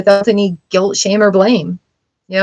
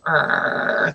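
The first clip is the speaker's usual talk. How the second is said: low, soft mock growl; a small pretend growl of pent-up agitation; frustrated growl; 5 semitones lower, 10 dB quieter than usual. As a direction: quietly imitate a worked-up "arrr". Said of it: "get yourself more worked up".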